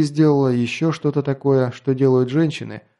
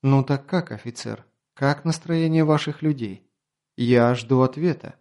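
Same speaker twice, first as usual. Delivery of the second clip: languid voice. Acted. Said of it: "несколько иным, томным голосом".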